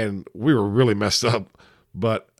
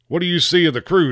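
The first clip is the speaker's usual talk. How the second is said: much higher, louder yelled question; captain yelling; 8 semitones higher, 3 dB louder than usual. Acted. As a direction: shout the question up to the sailor. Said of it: "the captain yells to the sailor".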